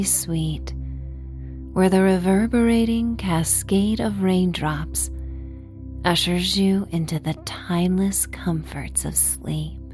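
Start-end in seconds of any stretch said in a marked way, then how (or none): none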